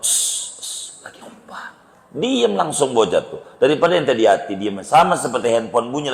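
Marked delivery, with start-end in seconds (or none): 0.0-1.7 whispered shush, much softer; hushing whisper. Shown as a demonstration. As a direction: hush the noisy kid. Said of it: "Mendingan ente tegor". (berbisik menegur anak yang berisik)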